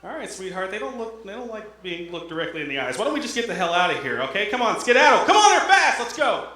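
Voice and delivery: hushed then rising hurried hick; nervous husband. Retold or imitated. Husband to wife, hushed then rising panic. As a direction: shoo the wife away, building in pitch and volume.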